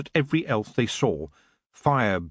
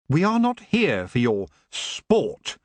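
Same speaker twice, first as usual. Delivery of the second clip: stated; 3 semitones higher, slower than usual. Acted. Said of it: "he stated".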